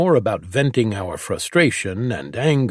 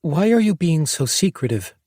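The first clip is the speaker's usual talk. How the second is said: demanding; 8 semitones higher than usual. A narrator's reading. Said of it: "Lacey demanded".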